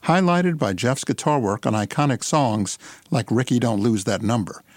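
polished announcer read of a bio; radio intro read. Acted. Pre-recorded show intro read.

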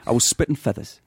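broad Newcastle dialect; Geordie accent. Shown as a demonstration. Nan ending her grumble to Gavin, Geordie accent. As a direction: finish the complaint in broad Geordie. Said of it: "And it goes like this".

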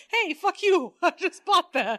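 mock angry outburst. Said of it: "I'd have been like".

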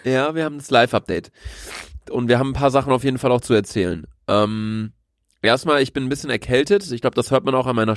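talking through a blocked nose; slightly nasal from a cold; stuffy nose. Real, not acted. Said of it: "dass ich so ein bisschen durch die Nase spreche".

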